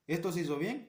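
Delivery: "bien" lifted with a light rising tune, like ticking a box; mock inspector with a clipboard, marking it good; approving checker. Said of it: "vas a estar con un tablero". (inspector aprobando, "bien" con tono ascendente)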